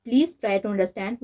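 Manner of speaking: very slow, each word of "Please try to understand" pressed separately; patient, slow, word-by-word pleading; stressing every word. A narrator's reading. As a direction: spell it out word by word so she finally understands. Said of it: "एक एक लफ्ज़ पर जोर देते हुए समझाने के अंदाज में".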